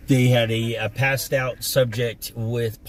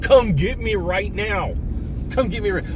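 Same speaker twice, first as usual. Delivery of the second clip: taunting; 8 semitones higher than usual. Retold or imitated. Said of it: "I begged the dude".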